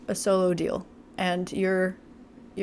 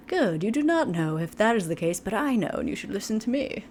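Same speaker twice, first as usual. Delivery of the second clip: creepy voice. Retold or imitated. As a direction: lean in like a controlling manipulator. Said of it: "my creepy voice".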